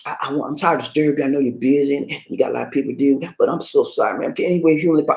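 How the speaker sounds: fast, stammering sorry; nervous apologetic plea; flustered apology. Shown as a demonstration. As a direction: rush out apologies, tripping over words. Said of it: "you run your story on 'em".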